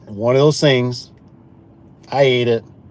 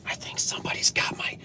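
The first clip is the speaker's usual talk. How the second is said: retold panic; 12 dB quieter than usual.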